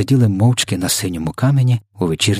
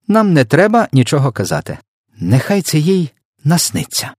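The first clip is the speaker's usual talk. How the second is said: high-pitched, louder eager scheming; excited; 9 semitones higher, 5 dB louder than usual. A narrator's reading. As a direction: pitch way up as the idea pours out. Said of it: "схвильовано вигукнула Софія".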